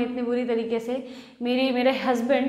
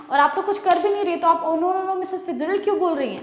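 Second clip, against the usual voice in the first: raised, higher, insistent questioning; loud puzzled husband arguing; confused argument; 5 semitones higher, 4 dB louder than usual. Acted. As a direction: demand she make sense. George argues, confused, with wife.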